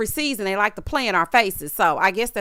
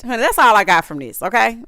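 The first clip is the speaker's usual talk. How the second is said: sassy dismissal; 7 dB louder than usual. Real, not acted. Dismissing the scene.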